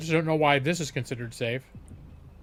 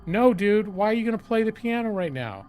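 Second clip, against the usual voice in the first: incredulous, raised voice; baffled and annoyed; exasperated; 5 semitones higher than usual. Real, not acted. Exasperated at game option.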